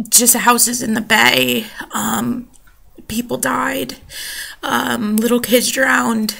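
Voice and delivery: choking up over the losses; upset. Real, not acted. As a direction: voice rising high, close to tears. Describing her destroyed town.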